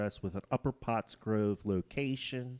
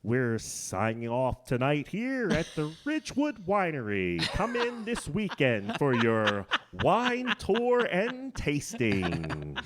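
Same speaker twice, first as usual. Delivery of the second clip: hammed-up vintage radio sign-off, louder and higher; old-timey announcer voice; 3 semitones higher, 5 dB louder than usual. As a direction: boom it out like a 1940s radio host. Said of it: "Bring us out on your old-timey voice".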